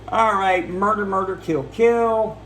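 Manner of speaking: quick gleeful murder chant; mock gleeful. Recapping the movie, chants murder kill gleefully. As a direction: rattle off the killings like a game.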